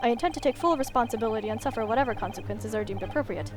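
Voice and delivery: lightly voiced earnest lawyer, measured; formal defense lawyer. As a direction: read it like a composed barrister.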